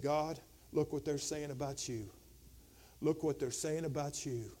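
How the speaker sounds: low, soft appeal to God; hushed prayer. Retold or imitated. Preacher voices Hezekiah praying at the altar, hushed prayer. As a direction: lay it before God quietly.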